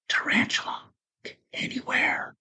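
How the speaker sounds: hushed, secretive whisper. Acted. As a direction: lean in and whisper it. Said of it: "he leaned in and whispered".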